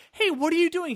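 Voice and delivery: high-pitched imitation of a sister calling; mock nosy sister. She's calling you during the chase, mock nosy sister. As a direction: pitch it up, checking in on him. Voices sister phoning the hero.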